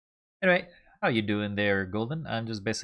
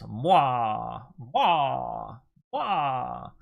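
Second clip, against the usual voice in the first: hammy villain mwah; 3 dB louder, much slower than usual. Pretend. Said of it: "This is so corny".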